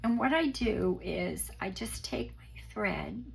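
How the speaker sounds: hoarse, sick croaky voice. Real, not acted. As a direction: speak through a croaky throat. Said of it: "sorry about my croaky voice".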